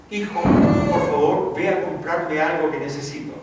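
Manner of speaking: acted motherly summons; mother calling. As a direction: call the child in from play, stretching the first words. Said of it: "me llamó".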